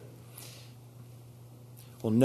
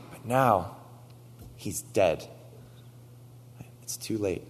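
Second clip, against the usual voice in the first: higher pleading voice, mild lament; voicing grieving Martha; 4 semitones higher than usual.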